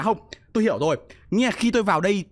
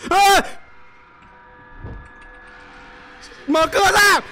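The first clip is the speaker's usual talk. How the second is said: much higher, loud frantic yelling; terrified streamer screaming as monster chases him; panicked screaming; 12 semitones higher, 8 dB louder than usual. Real, not acted. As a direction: scream for your life while being chased. Panic chase in horror game.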